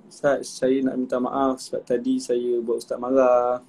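put-on a boy shyly saying sorry to his teacher; timid child apology.

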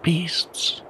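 straining, pushed out on a breath; exclaimed with effort. A narrator's reading. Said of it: "kept exclaiming with every expulsion of breath".

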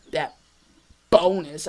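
burp through the words; words broken by a burp. Real, not acted. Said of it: "I had to burp there".

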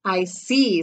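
mildly solemn storybook doctor; a touch of gravity; understated, serious acknowledgment; grave doctor. Acted. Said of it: "said the doctor gravely".

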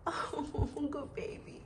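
soft unvoiced whisper of praise. Real, not acted. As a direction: breathe the praise to the dog. Praising the dog.

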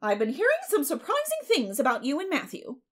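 high, loud, emphatic neighbor; busybody voicing astonishment; Mrs. Rachel, gossipy neighbor. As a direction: pitch it up, big swoops and punchy volume.

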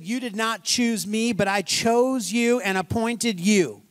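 slow, weighty reading of the verse; solemn scripture reading. Acted. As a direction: let each word land like holy writ. Reads scripture slowly.

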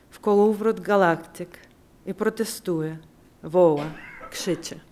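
slow, careful learner's Polish; slow student Polish. Shown as a demonstration. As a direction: read it slowly like a language student. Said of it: "in this kind of student-like, slow Polish".

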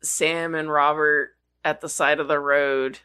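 slow, mock Latin chant. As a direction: intone it like a Latin incantation. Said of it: "it says it all Latin-like".

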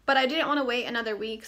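fast and breathy, out of breath; breathing heavily. Real, not acted. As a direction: talk while short of breath. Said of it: "I'm breathing really heavy".

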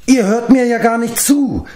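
high-pitched wail of protest; indignant cry. A narrator's reading. Giant realising his listeners ignore him, crying out. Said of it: "schrie Glev".

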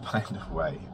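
laughing nervously; a real nervous chuckle. Real, not acted. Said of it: "That's a nervous laugh".

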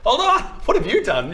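high, loud call through a wall; shouting through a wall. Acted. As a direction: yell it across the wall. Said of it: "you're just shouting through the wall".

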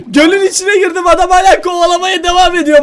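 high, laughing complaint; incredulous and giggly; laughing disbelief. Real, not acted. Laughing, still being chased.

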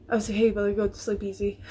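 said through a laugh. Real, not acted. Vlogger repeats herself to viewers, laughing at it. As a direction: let a laugh break in.

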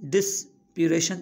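ڊسپيريشن with a pause after "dis"; broken into parts. Shown as a demonstration. Teacher naming the word for learners, in separated parts. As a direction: split ڊسپيريشن after its first syllable. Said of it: "ته ان لاءِ توهان هن جا syllable ٺاهيو".

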